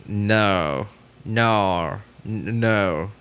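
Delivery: drawn-out Australian "no", lightly imitated; a hint of mock Australian; attempted Australian accent. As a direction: try an Aussie "naur". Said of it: "it sounds like an Australian".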